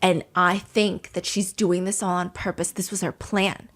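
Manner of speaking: low, slow conspiratorial whisper-tone. Retold or imitated. Tian telling housemates, low and conspiratorial. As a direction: lean in like sharing a secret plot.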